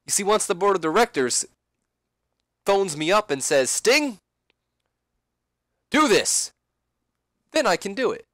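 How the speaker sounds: smug, patient explanation; Sting. Acted. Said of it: "And then Sting responds".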